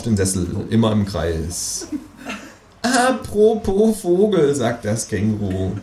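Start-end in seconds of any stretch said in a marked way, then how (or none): 2.8-4.5 high, slow, drawn-out quip; sly kangaroo. A narrator's reading. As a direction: savour the pun. Kangaroo deadpan.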